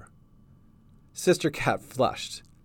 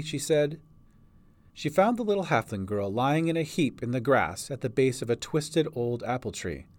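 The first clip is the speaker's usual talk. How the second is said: usual speaking voice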